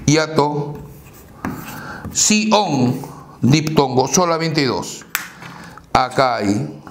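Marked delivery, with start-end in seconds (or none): 2.1-3.0 "Si, on" split into two separate syllables. Shown as a demonstration. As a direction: sound out "Si, on" with a break between. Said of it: "Separamos en sílabas". ("Si, on" separado en sílabas)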